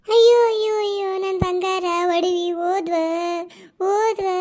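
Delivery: mock wailing for lost jewels. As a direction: cry out over the stolen gold. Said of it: "ಯಾಕ್ ಹಿಂಗ ಅಳಕತ್ತೀರಿ".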